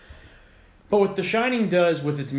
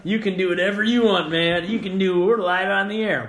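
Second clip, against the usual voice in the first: loud; 6 semitones higher, 5 dB louder than usual. Real, not acted. Joking protest at cohost.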